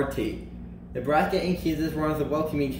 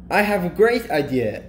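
mildly excited announcement; exclaiming; 3 semitones higher, 4 dB louder than usual. Acted. Kansas pitches a great idea to Nebraska, exclaiming. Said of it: "exclaimed Kansas".

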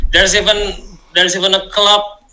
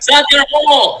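imitating Aussie; 6 semitones higher than usual. Shown as a demonstration.

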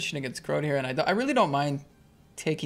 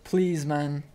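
tense pleading; 7 semitones higher, slower than usual. Real, not acted. Sweating a big all-in.

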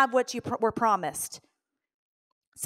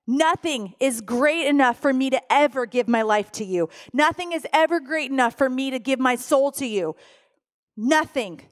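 firm refusal; 2 semitones higher, 3 dB louder than usual. Retold or imitated. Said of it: "And I said".

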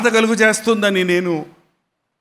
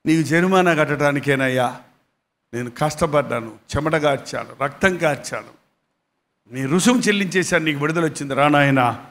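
weary mother; 5 semitones lower than usual. Acted. Widow tells her freed son she paid for him, low and tender. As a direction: speak like a worn-out mother soothing her boy.

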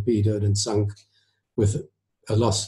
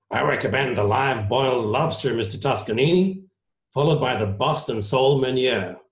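lightly voiced ship's commodore; genial Commodore; 3 semitones higher than usual. Commodore recommends dinner to the maestro, lightly acted. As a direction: play a host recommending dishes, lightly.

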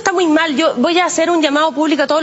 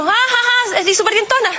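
forced joke laugh; 6 semitones higher than usual. Retold or imitated. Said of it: "Entonces, como".

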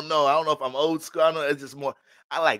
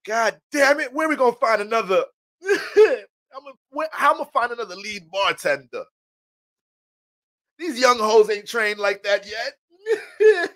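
high, frantic manager voice with laughter; a stressed supervisor losing his top bartender; panicked boss; 8 semitones higher, slower than usual. Retold or imitated. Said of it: "the supervisor manager be like".

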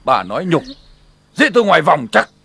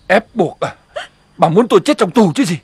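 ordinary talk, nothing marked

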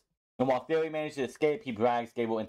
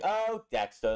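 "Oh, Dexter" lifted higher with a fond sigh; fond exasperated inflection; 8 semitones higher, slower than usual. Retold or imitated. Johnny imitated teasingly chiding Dexter with a lilt. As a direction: say "Oh, Dexter" like scolding a silly pet. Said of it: "he has that inflection in his voice".

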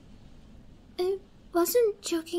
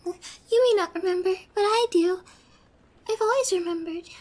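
louder and higher, gushing and tearful; obsessive excitement; 3 semitones higher, 4 dB louder than usual. Acted. Yandere gushing at her captive over an old memory. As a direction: pour the memory out in a breathless rush.

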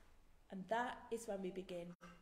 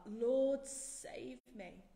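heartfelt cry; 2 semitones higher, 5 dB louder, much slower than usual. Acted. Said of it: "make the true cry from the heart".

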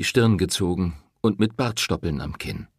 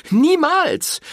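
very high, loud refusal; woman rejecting the priest's advice; defiant shout; 7 dB louder than usual. A narrator's reading. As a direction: shout it, never.

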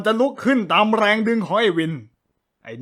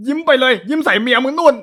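annoyed shout; 6 semitones higher, 6 dB louder than usual. Acted. Yells at Win to go.

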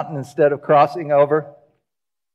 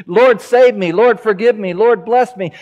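raised, pleading prayer; a believer crying out at the cross, raised voice; crying out to the Lord; 5 semitones higher, 4 dB louder than usual. Retold or imitated. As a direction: call out to Jesus for mercy. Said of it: "we cry out to Jesus".

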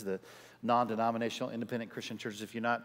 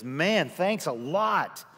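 impressed friend; 5 semitones higher, 5 dB louder, much slower than usual. Retold or imitated. Friend praises after sermon.

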